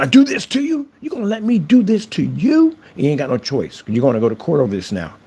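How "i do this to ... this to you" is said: mock whiny trolls. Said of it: "then turn around".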